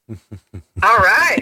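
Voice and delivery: heard through phone speaker; laughing caller on speaker; on speakerphone. Real, not acted. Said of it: "You're on speaker".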